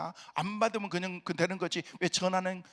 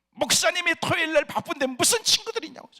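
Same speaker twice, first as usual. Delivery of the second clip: high, louder mock wife voice, teasing; mimicking his wife; 10 semitones higher, 6 dB louder than usual. Pastor quoting his wife's refusal in a mock high voice. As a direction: put on the wife's voice to poke fun.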